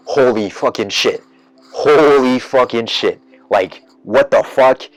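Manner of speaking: shocked audience. Retold or imitated. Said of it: "huge, big what the fuck from everybody".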